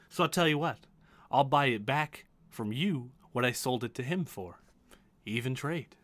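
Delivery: musing merchant, trailing into murmurs; magical item broker. Acted. Broker inspects armor she once sold, musing. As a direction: ponder aloud, then offer a bargain.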